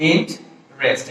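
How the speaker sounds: ইন্টারেস্ট as int, pause, rest; split into syllables. Shown as a demonstration. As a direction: break ইন্টারেস্ট in two, middle vowel dropped. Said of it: "ভাওয়ালটা drop করলে".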